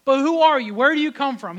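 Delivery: loud, pressing challenge; demanding. Retold or imitated. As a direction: demand an answer, firm and loud. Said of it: "He's demanding".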